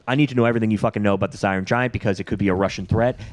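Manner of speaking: fast, mildly agitated rant; losing composure. Retold or imitated. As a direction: rattle it off with understated agitation. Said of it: "kinda loses his composure".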